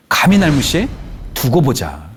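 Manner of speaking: acted indignation. Middle-aged person feeling ignored, acted indignation. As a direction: play someone slighted and vowing payback. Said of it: "너무나 화가 많이 들었다".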